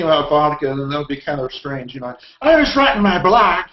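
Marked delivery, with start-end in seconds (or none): 2.4-3.6 put-on high, loud British accent as Dudley Moore; hammed-up British accent, pitched up and loud; Dudley Moore impression. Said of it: "Dudley Moore from the dead".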